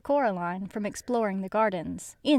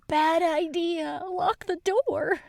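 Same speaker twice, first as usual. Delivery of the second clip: high slow urgent warning; shouted warning; 7 semitones higher, 3 dB louder, slower than usual. Real, not acted. Yelling warning at the character.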